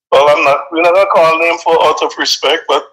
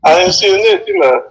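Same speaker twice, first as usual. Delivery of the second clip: Vincy dialect; 3 semitones higher than usual. Acted. Friend asks him to talk Bekwai, so he tries Vincy dialect. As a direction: attempt at Vincentian Bekwai accent. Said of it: "speak to me in Bekwai now".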